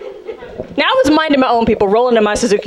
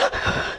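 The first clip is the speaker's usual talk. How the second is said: mock gasp; 11 dB quieter than usual. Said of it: "lips quivering, they're like".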